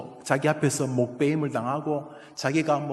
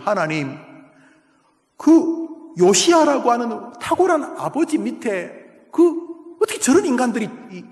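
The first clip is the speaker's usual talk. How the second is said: prophet's outcry; 7 semitones higher, 4 dB louder than usual. Acted. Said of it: "하면서 막 하박국이 막 절규합니다".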